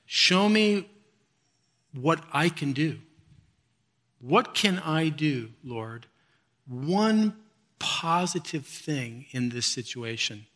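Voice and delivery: slow, softening prayer with long pauses. Retold or imitated. Preacher re-enacting a plea to God for one kind act, quiet prayer. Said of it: "I then pray and I say".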